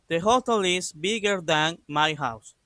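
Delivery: reads the model sentence slowly and clearly, like dictation; slow model reading. Shown as a demonstration. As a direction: spell out each word slowly for the class. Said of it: "La oración queda así". (lectura lenta y clara para los alumnos)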